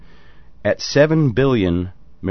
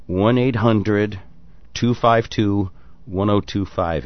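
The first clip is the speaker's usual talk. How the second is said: slow, deliberate number read; slower than usual. Shown as a demonstration. Host slowly reading the call-in number to Canadians. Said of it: "let me say the number for the Canadians".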